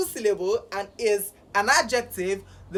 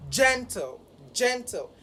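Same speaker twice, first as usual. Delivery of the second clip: "gentle" with GEN pitched above -tle; first-syllable stress; 3 semitones higher than usual. Shown as a demonstration. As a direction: demonstrate "gentle", high on GEN and falling after. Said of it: "should be higher in pitch".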